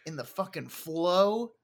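hell yeah, hyped and loud. Pretend. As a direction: pump it up like a fan. Hyped up about the game.

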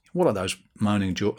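a hint of an Australian accent; accidental Australian accent. Podcaster mimicking critics of moaning fans, accidental Australian accent. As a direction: lightly slip into an Australian accent. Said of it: "I was doing Australian accent there".

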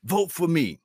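high-pitched sarcastic plea; sarcastic high campaign pitch; mock begging player. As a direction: sneer out a star pleading for votes. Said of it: "Reggie White had to say".

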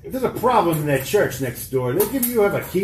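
put-on halting Boston accent, stammering; light Boston tough guy, stalling. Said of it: "keep doing the Boston accent".

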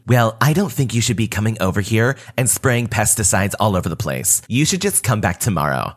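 lightly voiced bossy neighbour, condescending; a touch of entitled scolding; bigger attitude. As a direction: lecture him like he should know better. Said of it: "an even bigger attitude".

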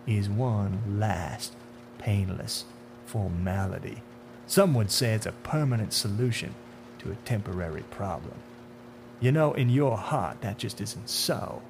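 understated, measured persuasion with pauses; sinister man in dark suit. Acted.

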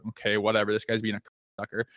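a hint of a low, fed-up mutter under the breath; muttered aside. Muttering about the coach privately.

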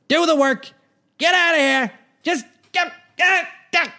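squeaky comic voice. Acted. Host shooing listeners off to work, in a high cartoon voice. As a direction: chase them off in a tiny cartoon voice.

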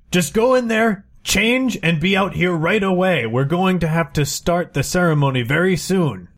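put-on bossy old uncle. Uncle orders Jackie.

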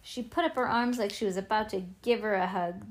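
ordinary delivery, nothing marked

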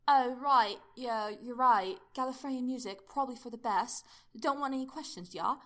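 animated character dialogue, punched out; chirpy Doctor character. Acted. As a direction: voice the Doctor's lines with punchy emphasis.

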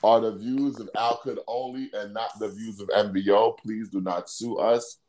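measured disclaimer, slowing to a whispery close; mock legal disclaimer. Host distancing the show from his co-host's views, mock-formal disclaimer.

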